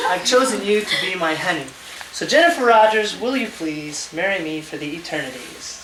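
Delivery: measured, sing-song rhymed reading; lilting recital, each couplet falling at the end; poem recitation. Real, not acted. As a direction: read your own love poem aloud, line by line. Reads out his proposal poem.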